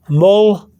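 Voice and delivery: teacher's syllable-by-syllable "moldeada"; slight TH D. Shown as a demonstration. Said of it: "Pronounce the D with a slight T H sound".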